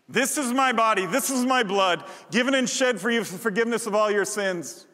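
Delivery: proclaimed. Acted. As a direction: declare it boldly to the congregation. Proclaims the words of institution.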